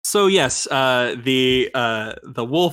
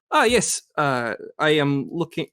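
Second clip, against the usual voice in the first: put-on halting, botched German accent; attempted German accent. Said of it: "keep screwing this up".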